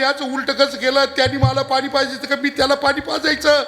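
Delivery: father's mock lament. Old father wailing over his dead son, in a hammed-up rising lament. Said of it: "बाप रडायला लागला".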